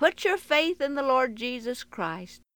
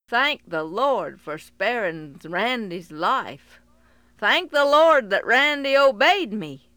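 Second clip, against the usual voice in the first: relieved; 6 dB louder than usual. Acted. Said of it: "full of relief and gratitude".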